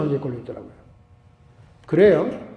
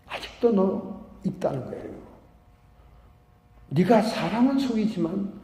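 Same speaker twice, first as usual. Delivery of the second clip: stern rebuke; 4 dB quieter than usual. Retold or imitated. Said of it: "막 호통치는 거예요".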